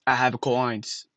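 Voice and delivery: "I have a cold lines" sounded out as spelt; supposed English accent. Shown as a demonstration. Showing viewers how to read English, sounded out. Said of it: "Like that".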